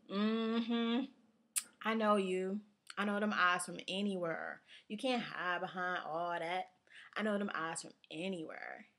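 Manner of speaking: lightly voiced knowing sandwich worker; a hint of a sure-I-know-you counter worker; suspicious sandwich worker. Acting sandwich worker who claims recognition.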